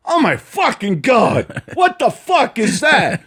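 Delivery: high, slow stunned gasp of disbelief. Retold or imitated. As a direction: gape at the impossible win. Wheels stunned by win.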